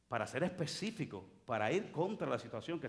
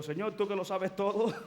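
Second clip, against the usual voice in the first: mock prayer laughing; 5 semitones higher, 6 dB louder than usual. Mocks vague prayer, laughing.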